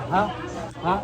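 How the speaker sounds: ordinary talk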